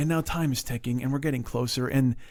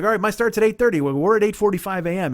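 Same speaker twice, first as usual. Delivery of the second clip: enthusiastic planning; 5 semitones higher, 4 dB louder than usual. Retold or imitated. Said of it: "He's all enthusiastic and inspired".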